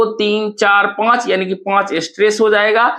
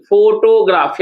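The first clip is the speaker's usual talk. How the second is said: "फोटोग्राफ" with more time on फो; stress on first syllable. Shown as a demonstration. Teacher showing where stress falls, first syllable held. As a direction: lengthen the opening फो of "फोटोग्राफ". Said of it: "फोर पर ज्यादा समय लगा".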